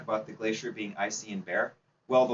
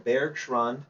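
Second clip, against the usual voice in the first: slow, deliberate German accent on Bergschrund. Shown as a demonstration. Instructor to climbing class, German-accented Bergschrund. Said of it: "that's my best German accent".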